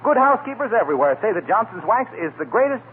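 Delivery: lightly voiced speech sliding into a wax ad; mock speech into ad. Announcer showing Fibber a speech, easing into ad read. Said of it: "say something like".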